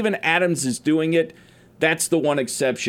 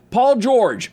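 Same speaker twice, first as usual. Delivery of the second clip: emphatic announcement; 8 semitones higher, 4 dB louder than usual. Real, not acted. Announcing the segment topic.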